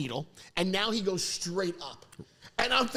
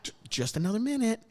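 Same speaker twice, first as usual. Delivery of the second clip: mock dentist. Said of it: "I love when doctors do this".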